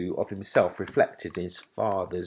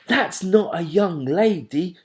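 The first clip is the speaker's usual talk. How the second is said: high, loud eager owlet cry; excited shriek; 9 semitones higher, 8 dB louder than usual. A narrator's reading. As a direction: shriek it out in delight. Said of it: "shrieked Plop".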